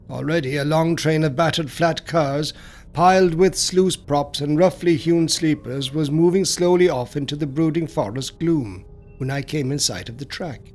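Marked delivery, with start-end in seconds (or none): none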